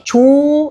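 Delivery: "조"를 높고 또렷하게 한 음절로; 아이가 따라 하도록 "조"를 분명히 들려주기; 모델링 소리 시범. Shown as a demonstration. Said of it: "이런 소리를 이렇게 모델링". ("조"를 높고 또렷하게 모델링)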